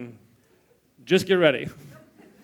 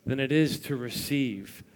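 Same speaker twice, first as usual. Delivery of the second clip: solemn scripture quote; 5 semitones lower, 3 dB quieter, slower than usual. Acted. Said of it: "in the scriptures it says this".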